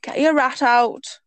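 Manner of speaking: slow second stab at Geordie; drawn-out imitation of Geordie schoolboys; hesitant Geordie catcall; attempted Geordie accent. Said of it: "let me do that again".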